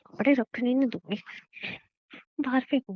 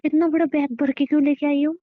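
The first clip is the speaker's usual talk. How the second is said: indignant, higher-pitched complaint; indignant questioning; 5 semitones higher than usual. Acted. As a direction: challenge him in protest. Wife challenges husband about the bag.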